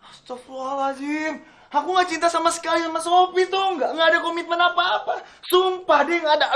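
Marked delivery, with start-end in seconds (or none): 1.7-6.5 laughing denial. Acted.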